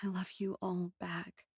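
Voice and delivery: soft whispered reply, choked; tearful whisper. Acted. Girl answering her little friend's love in a whisper. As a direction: whisper it through the tears.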